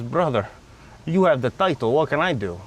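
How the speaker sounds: lightly imitated Eastern European accent; a hint of an Eastern European seller's accent. Car seller reasoning with the buyer, light Eastern European accent. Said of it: "In this Eastern European accent".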